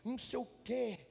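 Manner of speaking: mock lofty prayer. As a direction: parody a showy over-formal prayer.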